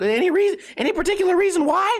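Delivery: high, insistent questioning; pry in a high put-on salesman voice; mocked salesman. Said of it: "He's like".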